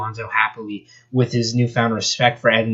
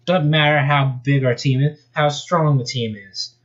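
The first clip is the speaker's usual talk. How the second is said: a hint of Australian twang on the line; lightly put-on Australian, easygoing; Australian accent; 3 semitones higher than usual. Australian volunteer reassures Sonic, light Australian accent. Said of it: "I finally got an accent ready".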